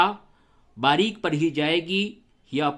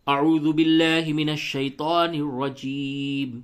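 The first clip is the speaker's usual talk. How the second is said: slow, drawn-out tajweed chant; قرآنی تلاوت کا لحن; Quranic recitation; slower than usual. Acted. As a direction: recite it melodically, stretching the vowels. Recites ta'awwuz before lesson.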